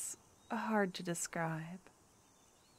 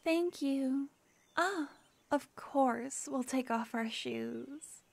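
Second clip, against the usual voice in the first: polite public voice; 5 semitones higher than usual. Acted. Polite greeting to the guards.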